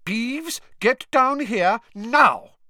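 high, loud, slow stern bark; slow, furious teacher's command; barked order. Acted. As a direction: bark at the poltergeist. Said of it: "barked Professor McGonagall".

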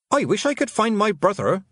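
high, loud and longing; a girl wishing out loud, high and loud; said aloud. A narrator's reading. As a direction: call it out to the empty room. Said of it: "she said aloud".

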